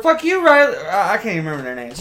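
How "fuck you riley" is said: very high, loud character squeal; Shorzy. Retold or imitated. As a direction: chirp a rival in a put-on high voice. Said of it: "he just keeps going".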